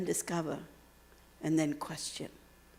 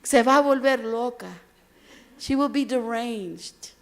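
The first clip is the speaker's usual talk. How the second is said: worried parents; 4 semitones higher, 8 dB louder than usual. Retold or imitated. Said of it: "They worried that my brain would explode".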